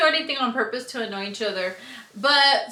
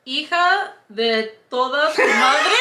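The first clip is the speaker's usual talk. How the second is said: laughing curse; 4 dB louder than usual. Real, not acted.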